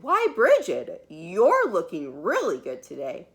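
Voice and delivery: pleasantly surprised mother. Acted. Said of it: "her mother said".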